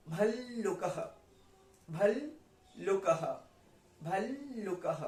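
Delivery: slow "भल्लुकः" with a long "भल" before "लुकः"; held double l. Shown as a demonstration. Teacher showing the half la, "भल्लुकः" slowly with l held long. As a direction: linger on the l in "भल्लुकः". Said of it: "तो अल बोलेंगे".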